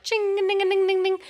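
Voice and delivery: chirpy bell chime, first ding pitched high; bell ding imitation. Realizing the stranger needs the same date, she chimes like a bell. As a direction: ring it out like an alarm bell going off in her head. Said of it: "like the bionic ear".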